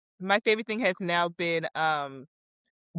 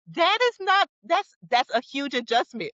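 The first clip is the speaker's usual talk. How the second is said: exasperated; 7 semitones higher than usual. Retold or imitated. Exasperated at planning everything.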